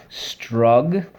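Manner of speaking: strug said alone as a clear syllable; syllable drill. Shown as a demonstration. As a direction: say strug as one separate beat. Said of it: "first syllable".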